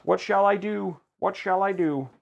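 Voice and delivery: mock apology. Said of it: "And I'm like".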